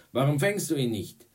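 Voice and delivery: loud, high, indignant yell; bellowing. A narrator's reading. Pitcher scolds baseman who missed the ball, bellowing. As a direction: yell the reproach across the field. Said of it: "brüllte Tom".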